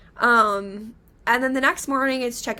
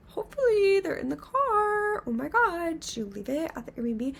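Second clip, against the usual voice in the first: high, anxious plea trailing off; near-tearful alarm; panicked; 7 semitones higher than usual. Retold or imitated. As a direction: worry breaking into the voice. Panicking over lost invitations.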